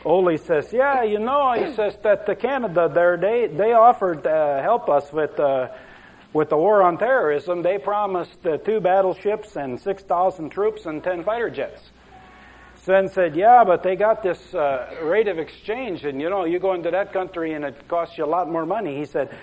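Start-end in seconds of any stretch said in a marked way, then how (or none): 0.7-11.9 lightly voiced Norwegian, higher and sing-song; a hint of a Scandinavian Ole telling it; Ole's Norwegian accent, a touch hammed-up. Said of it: "I better stick with the Ole and Sven". 13.3-19.0 a light Scandinavian lilt for Sven; lightly voiced Norwegian accent. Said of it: "I better stick with the Ole and Sven".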